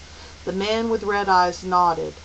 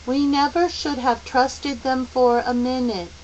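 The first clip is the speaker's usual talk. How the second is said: calm, reasonable; 5 semitones higher than usual. Acted. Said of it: "in his calmest, most reasonable voice".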